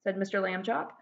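lively read-aloud storytelling; expressive children's book reading; story narration. A narrator's reading. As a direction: tell it like reading to kids. Reads the story to the class.

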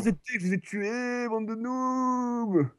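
drawn-out taunting shout; long-drawn victory jeer; gloating shout. Real, not acted. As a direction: crow over the kill, stretching the last word. Gloating over a kill in game.

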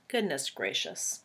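breathy hushed gasp of goodness gracious; whispered surprise. Real, not acted. Reader startled by the illustration, whispering. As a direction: whisper it as if amazed by the picture.

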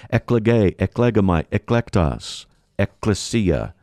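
eklege, eklegamai, eklektas, ecclesia as a list, each "ek" or "ec" lightly stressed; first-syllable emphasis. Shown as a demonstration. Preacher links church to election, first-syllable emphasis on eklege, eklegamai, eklektas, ecclesia. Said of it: "pronounce them with a bit of an emphasis on the first syllable".

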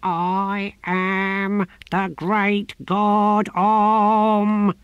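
slow, menacing divine proclamation; the tortoise god menacing the novice; menacing low voice. A narrator's reading. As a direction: threaten with grandeur. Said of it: "in a menacing and unavoidably low voice".

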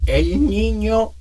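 slow, high cracking voice. Shown as a demonstration. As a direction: let the voice break on purpose. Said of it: "cómo quiebro a propósito".

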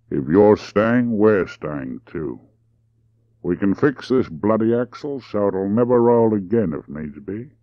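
lightly voiced drawling Australian man; deliberate Australian driver.

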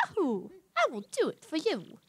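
put-on Mario line in a muddled accent; odd put-on accent. Mario agreeing to help, muddled put-on accent. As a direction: attempt a cartoon accent and miss. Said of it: "What was that accent?".

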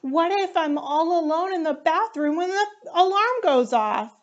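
a frightened cub worrying aloud; scared. Acted. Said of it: "Panda said".

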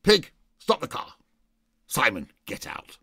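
put-on sudden drunken roar; furious shout. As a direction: yell at the driver to stop. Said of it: "And he goes".

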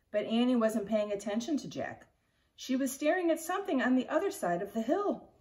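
put-on lively read-aloud narration for kids; expressive picture-book reading to children; story reading. A narrator's reading. Teacher reads chapter book aloud.

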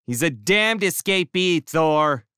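high, sharp mock snap; snapping. A narrator's reading. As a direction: snap the warning at Thor. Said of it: "snapped the short one".

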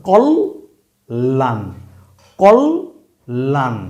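কল্যাণ said very slowly with a long doubled ল; drawn-out teaching demo of কল্যাণ. Shown as a demonstration. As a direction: stretch out কল্যাণ, holding the double l. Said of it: "কল্যাণ হিসেবেই যদি আপনি বুঝেন".

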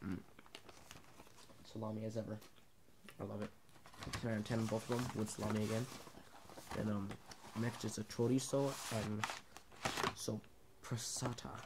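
chewing while talking; talking between bites; mouth full. Real, not acted. Seen 2: hand to mouth at -1.0, then closed-lip jaw movement and bulging cheek.

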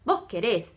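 "querés" com acento na última sílaba; forma com vos. Shown as a demonstration. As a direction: diga "querés" terminando tônico em "rés". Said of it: "com o vos, né, ficaria". ("querés" com tônica no final)

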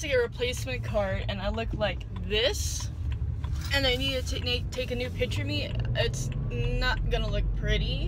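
loud, fretting about looking bad in the photo; rising panic over a bad ID picture; upset she skipped makeup before the DMV photo, loud and fretful; dismayed rant. Real, not acted.

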